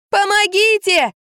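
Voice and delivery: high, drawn-out cry for help; panicked high yell, slow; terrified yell. A narrator's reading. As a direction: scream for help in terror. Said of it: "завопила я, холодея от ужаса".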